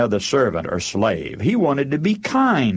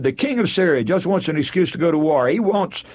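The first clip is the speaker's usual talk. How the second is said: rushed and higher, agitated king; upset fast rant; 5 semitones higher than usual. Retold or imitated. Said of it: "He got so upset".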